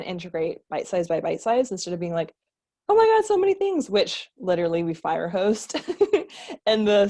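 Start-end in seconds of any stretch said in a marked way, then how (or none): 2.9-3.9 high, loud, rushed overwhelm; mock-frazzled higher, faster gasp; overwhelmed gush. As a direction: blurt it out, swamped by too much. Imitating an overwhelmed client.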